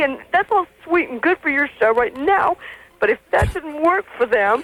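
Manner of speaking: worked-up, emotional voice.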